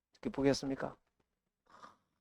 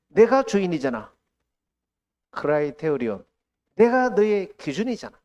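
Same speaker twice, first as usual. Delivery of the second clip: louder, rising rebuke building to a climax; stern rebuke; 4 semitones higher, 5 dB louder than usual. Retold or imitated. The Lord rebukes the struggling pastor, loud stern voice. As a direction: thunder it as a divine reproach.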